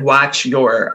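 "Watch your" said slowly, Midwestern American; a flat Midwestern "Watch your"; Midwestern accent. Shown as a demonstration. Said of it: "in my very Midwestern accent".

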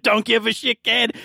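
retold biker snarl; gruff dismissive NPC. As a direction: toss it off with a sneer. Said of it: "He's like".

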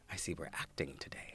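soft, dry mock-impressed remark; impressed aside. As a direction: say it softly, as if to yourself. Impressed aside while watching co-star.

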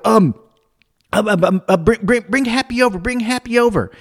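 acted flustered fumbling for words; retold panic. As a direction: stumble into a flustered instruction, pitch climbing. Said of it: "I'm totally panicking here".

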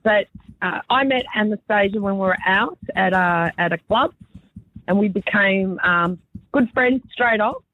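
hoarse after a late night; husky morning-after voice; rough voice. Real, not acted. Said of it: "excuse my, uh, rough voice here".

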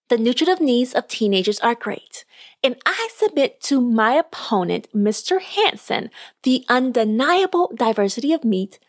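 lively storyteller reading a podcast tale; measured read-aloud narration; story narration. Acted. Reads a short story aloud.

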